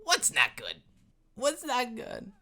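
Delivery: lightly voiced gruff dwarf; a hint of a grumpy dwarf. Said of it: "he's like".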